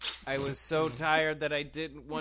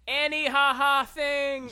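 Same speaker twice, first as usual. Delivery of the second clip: being tickled; 11 semitones higher, 9 dB louder than usual. Acted. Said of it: "I screamed".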